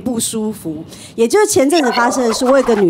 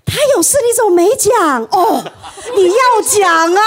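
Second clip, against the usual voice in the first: laughing reproach; 7 semitones higher than usual. Retold or imitated. Tactless friend scolding, laughing.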